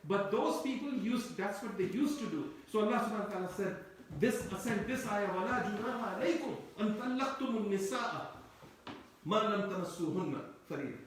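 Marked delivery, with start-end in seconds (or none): 5.3-11.0 rapid Quran recitation. Acted. Preacher quoting the ayah to his audience, very fast recitation. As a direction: reel off the Arabic verse very fast.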